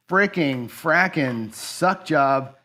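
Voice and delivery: slow, drawn-out minced cursing; disgusted venting. Real, not acted. Gambler venting over a terrible run, disgusted. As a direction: drag out each swear in disgust. Venting after losing the bankroll.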